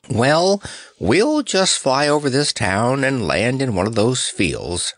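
high start, a touch uneasy; understated nervous puffing. Acted. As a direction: begin high and settle, mildly unsure. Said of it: "puffed Notta uneasily".

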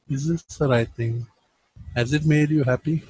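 soft gentle asking; gentle questioning. Retold or imitated. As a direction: ask quietly, without blame. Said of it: "he will ask in this form".

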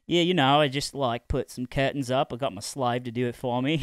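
mock Australian accent. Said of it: "this guy's Australian instead".

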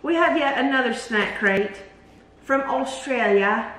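put-on a weak, half-hearted stab at an Australian accent; lightly put-on Aussie vowels, drawn out at the end; terrible Australian accent. Hosts opening a snack video in mock Australian accent. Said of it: "That was probably a terrible accent".

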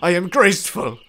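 loud, high indignant insistence; loud affronted claim. Acted. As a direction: insist on your dignity. Indignant after falling.

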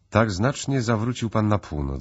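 captain's voice lifts high in surprise; surprised. A narrator's reading. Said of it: "zdziwił się kapitan". (zdziwiony, wyraźnie podniesiony głos)

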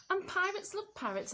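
squawking parrot. Acted. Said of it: "it squawked".

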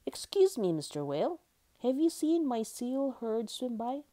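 high little seal voice, politely asking; summoning courage. A narrator's reading. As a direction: pipe up bravely to someone big. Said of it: "Summoning all his courage".

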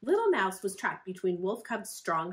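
usual speaking voice

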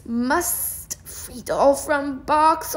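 slow, clipped caveman talk; mock robot. Collector struggling with the box, mock robot. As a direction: play it as a single-minded machine.

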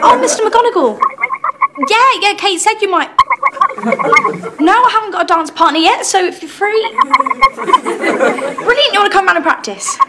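high, bright eager phone voice; excited. Acted. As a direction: gush into the phone. Excited phone call, dance partner.

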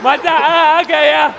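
crowd call. Real, not acted. Performer calling out to the crowd.

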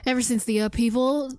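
hammed-up southern villager; grateful country folk in a put-on southern accent. Villager thanks rescuer and asks about shield surfing, southern accent. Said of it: "I started doing a southern accent".

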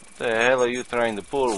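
put-on loud, high, suspicious accusation in the accent; angry accusation. Inspector catching a forged document, angry. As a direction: confront her, angry.

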